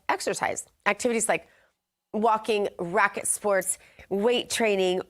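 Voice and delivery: upbeat morning show health news read; news anchor read. Acted. Anchor opens the health news segment for viewers, bright news read. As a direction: deliver the health headlines like a TV anchor.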